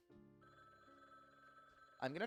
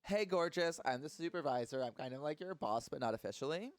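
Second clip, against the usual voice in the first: put-on Valley Girl voice; 3 semitones higher than usual. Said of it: "Valley Girl effect".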